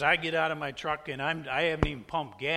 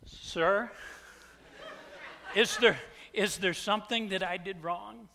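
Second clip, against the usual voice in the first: polite; 2 semitones higher than usual. Retold or imitated. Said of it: "this is what comes out of my mouth".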